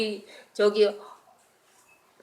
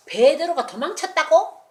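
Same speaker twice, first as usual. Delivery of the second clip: higher, louder furious yell; shouting orders; 8 semitones higher, 5 dB louder than usual. Acted. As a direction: bark out the search order. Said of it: "소리를 질렀는데". (화가 나서 찾으라고 소리치는 명령)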